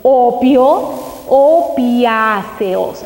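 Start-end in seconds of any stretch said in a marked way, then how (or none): 1.3-3.0 opiáceos stretched very slowly; slow emphasis. Shown as a demonstration. Speaker linking opio to opiáceos, drawn out slowly. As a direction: lean on each syllable of opiáceos. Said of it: "Así se llaman".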